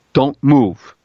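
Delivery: ordinary talk, nothing marked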